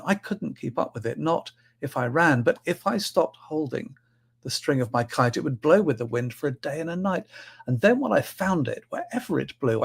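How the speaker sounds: light, sing-song poem reading; wonder-filled children's verse. Acted.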